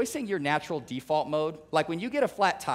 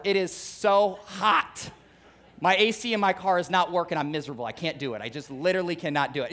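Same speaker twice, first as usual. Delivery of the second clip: mock whiny complainer. Nebraskan griping about summer heat, mock whining. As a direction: whine like the heat is unbearable. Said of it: "guess what I hear in the summer?".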